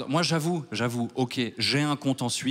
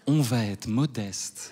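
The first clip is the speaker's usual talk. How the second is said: laughing irony; 4 semitones lower, much slower than usual. Acted. Ironic claim, laughing.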